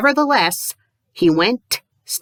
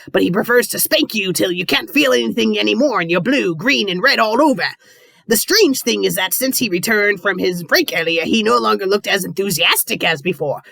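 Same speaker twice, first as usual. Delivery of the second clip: a hint of a pirate captain; lightly voiced greedy boss. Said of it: "I'll try to do the pirate voice".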